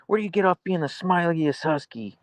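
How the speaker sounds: high teasing whisper; whisper to dog. Real, not acted. Owner teasing the smiling husky in a high whisper.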